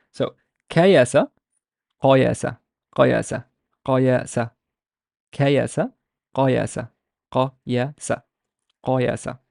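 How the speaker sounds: front "kayasa" against backed, uvular "qayasa"; kayasa qayasa drill. Shown as a demonstration. Teacher drills kayasa and qayasa. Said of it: "this is the most prominent".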